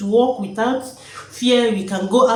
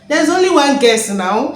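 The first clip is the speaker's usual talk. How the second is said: retold excited reply; 5 semitones higher, 7 dB louder than usual. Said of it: "I say".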